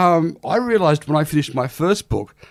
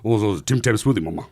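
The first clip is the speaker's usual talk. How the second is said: a hint of a crooner's mumble; lightly imitating a singer's crooning; impression of a singer; 5 semitones lower than usual. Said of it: "the singer sort of spoke like".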